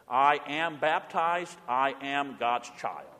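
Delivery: slow, soft, deliberate recitation; quiet, measured confession of faith; slow creed. Shown as a demonstration. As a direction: say each word slowly and quietly. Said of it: "Say it with me".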